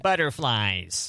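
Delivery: slow, dragged-out mock grumble; half-hearted grumpy voice. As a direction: drag the word like a reluctant grump. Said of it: "that went".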